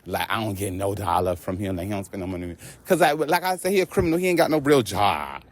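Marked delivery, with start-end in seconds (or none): 0.1-2.6 whiny mock complaint. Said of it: "not gonna make it like".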